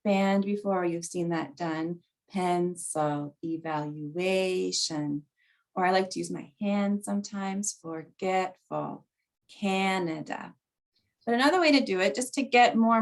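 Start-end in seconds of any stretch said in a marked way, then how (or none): 2.3-5.2 "Pencil" stressed on PEN, "evaluation" drawn out on A; syllable stress demo. Shown as a demonstration. Teacher showing word stress with a band, stressed syllables in "Pencil, evaluation" stretched. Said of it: "stress in syllables". 7.8-10.5 "forgetful" drawn out on GET, "Canada" stressed on CAN; syllable stress demo. Shown as a demonstration. Teacher showing stress with a hand, stressed syllables in "forgetful, Canada" stretched. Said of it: "stress in syllables".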